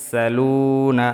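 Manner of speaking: স্যালুনা drawn out slowly; slow model reading. Shown as a demonstration. Teacher modelling the word slowly for repeating. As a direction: stretch স্যালুনা. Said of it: "আমার সাথে সাথে পড়বেন".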